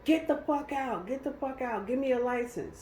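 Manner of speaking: high, slowed imitation of an irate cop; high-pitched mock command; retold angry order. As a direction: repeat the order as the officer, pitched well up. Retold officer ordering her out.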